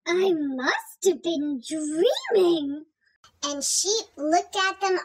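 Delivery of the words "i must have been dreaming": sleepy farmer. Acted. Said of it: "Farmer Dougal looked out".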